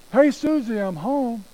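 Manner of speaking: high singsong holler, easing off at the end; yelling upstairs. Acted. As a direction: call up the stairs to be heard. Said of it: "So Dad yells up and says".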